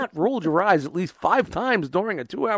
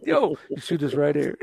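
De Niro impression; 3 semitones lower, 3 dB quieter than usual. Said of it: "it's like watching Bobby De Niro".

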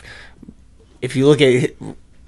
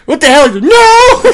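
high yelped protest, much higher; shocked denial; 10 dB louder than usual. Retold or imitated. Young Richard denying it in a high yelp. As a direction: squeal out a denial, caught off guard.

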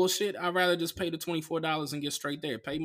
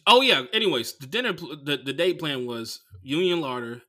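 ordinary delivery

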